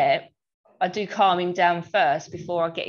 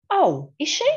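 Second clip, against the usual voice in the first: put-on high, weepy little boy asking; tearful child voice; 8 semitones higher, 3 dB louder than usual. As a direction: imitate a sniffly toddler, lightly. Mother acting out tearful son.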